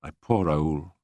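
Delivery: a touch of kind pity; kindly. Acted. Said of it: "she said kindly".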